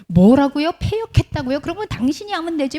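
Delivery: 높은 목소리로 발끈하며 대드는 연기; 어이없다는 듯 높게 쏘아붙이기; 따지고 싸우듯. Acted. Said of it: "이러면서 싸울 순 없잖아요". (발끈해서 따지듯이)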